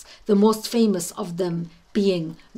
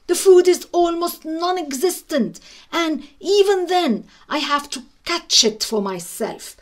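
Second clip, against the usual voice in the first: higher, fussy cat voice listing grievances; complaining cat; 6 semitones higher than usual. Acted. Cat grumbling to itself about the drafty shack, higher and fussy. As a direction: whine like a pampered cat who deserves better.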